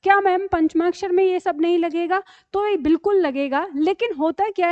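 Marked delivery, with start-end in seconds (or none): 0.0-2.2 imitating a student. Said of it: "अब आपके दिमाग में रहेगा".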